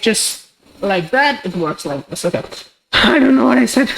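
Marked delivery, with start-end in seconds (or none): 2.7-4.0 laughing at himself. Real, not acted. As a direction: chuckle through the words. Laughs at own mistake.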